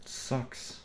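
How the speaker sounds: breathy whispered complaint; whispered gripe. Real, not acted. Fed up with the computer, whispered defeat. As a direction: let it out as a whisper. Sighing about the software.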